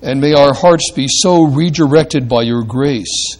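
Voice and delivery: measured, reverent pastoral prayer. Acted. Preacher leading the congregation in closing prayer, reverent and measured. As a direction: address God calmly, phrase by phrase.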